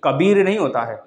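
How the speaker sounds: कबीर with a short i; कबीर said with a clipped short i; short-vowel कबीर; wrong spelling. Shown as a demonstration. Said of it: "तो उसमें बड़ी लगता है".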